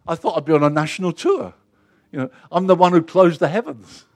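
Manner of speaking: a lightly voiced Elijah, puffed up and self-promoting; mock boastful prophet. Elijah protests hiding, hammed-up and boastful, lightly voiced. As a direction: ham up the vain preacher wanting a tour.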